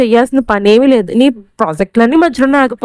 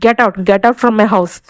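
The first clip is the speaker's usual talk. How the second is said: slow threat; much slower than usual. Acted. Mother-in-law throws son out.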